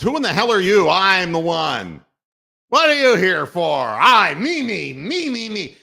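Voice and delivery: loud, high sneering yell of a gloating winner; mock yell. Host mocking a bowler gloating at fans, loud sneering yell. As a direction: bellow it out like a cocky bowler. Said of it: "assholes yelling at the fans".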